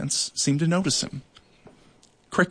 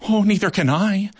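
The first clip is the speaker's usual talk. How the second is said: shuddering; 7 semitones higher, 5 dB louder than usual. A narrator's reading. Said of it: "Tara shuddered".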